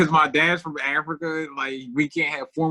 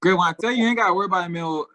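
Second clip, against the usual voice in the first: barely intelligible, words blurred into noises; garbled speech; much faster than usual. Real, not acted. Comedian riling his friends, garbled half-intelligible talk. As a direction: run the words together into near noise. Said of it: "This nigga made a bunch of noises".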